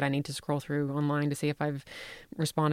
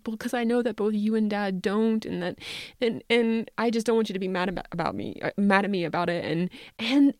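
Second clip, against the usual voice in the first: nervous daughter; 6 semitones higher than usual. Retold or imitated. Daughter voiced in the story.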